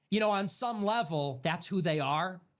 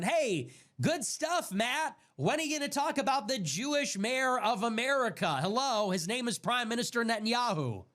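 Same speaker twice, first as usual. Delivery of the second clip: mock taunt; 6 semitones higher than usual. Mocking taunt at Matt Walsh.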